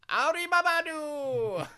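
put-on drawn-out English accent greeting; hammed-up English accent; mock English accent. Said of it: "mock English accent pick".

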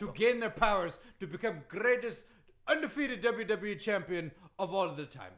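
put-on boastful accented wrestling champ; Iron Sheik. Wrestler reciting his wins to the host, boastful accent. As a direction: brag in thick broken English. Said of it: "that Iron Sheik impression".

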